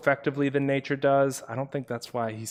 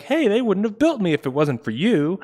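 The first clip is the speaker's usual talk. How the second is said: high, loud cartoonish protest; talking bridge; 8 semitones higher, 7 dB louder than usual. Bridge calling to the river in a mock argument, high loud voice. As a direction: play the bridge calling out, pitched up. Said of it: "the bridge could be like".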